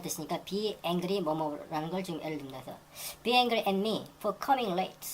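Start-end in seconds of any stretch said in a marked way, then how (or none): 3.2-5.1 very slow, careful textbook read; slow example reading. Shown as a demonstration. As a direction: lay out every word slowly for learners. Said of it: "teacher reads example sentence". (천천히 읽는 예문)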